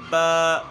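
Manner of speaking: با with a jolt at the end, shown as the error; wrong ba. Shown as a demonstration. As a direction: show the mistaken با loudly. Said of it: "غلطی کیا ہوتی ہے". (با کی غلط ادائیگی)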